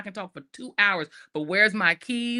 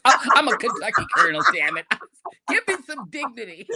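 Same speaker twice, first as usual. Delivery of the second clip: fake authoritative voice; 6 dB louder than usual. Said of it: "my fake voice".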